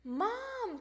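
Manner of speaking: high, stretched complaint; crying out. Acted. Froggy home with no playmates, high complaining cry. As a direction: wail it lightly for Mom. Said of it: "cried Froggy".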